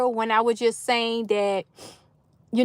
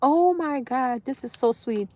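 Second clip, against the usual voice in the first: moved almost to tears, speaking gently; quietly welling up with joy; tearing up; 8 dB quieter than usual. Real, not acted. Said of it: "Yes, I'm tearing up".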